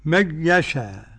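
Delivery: nun of من merged straight into يشاء, no nasal hum; no ghunna, Khalaf's way. Shown as a demonstration. Sheikh shows students Khalaf's reading, من يشاء without ghunna. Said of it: "عدم الغنة لخلف".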